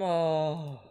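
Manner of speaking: ordinary talk, nothing marked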